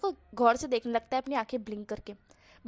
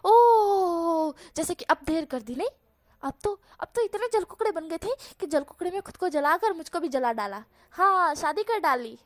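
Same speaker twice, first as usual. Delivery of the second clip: louder, higher outraged "ओह"; Wang Ji mock outrage; 4 semitones higher, 5 dB louder than usual. Wang Ji scolds jealous Wushian, loud mock outrage. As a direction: huff like a wronged drama queen.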